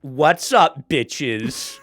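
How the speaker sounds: loud podcast host greeting; Alex Cooper catchphrase. Retold or imitated. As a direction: shout it like a podcast intro. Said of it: "Like the Barstool person?".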